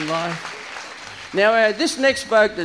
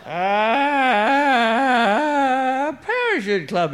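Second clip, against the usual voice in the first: stutter; 6 semitones higher, 3 dB louder, much slower than usual. Acted. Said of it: "he stuttered".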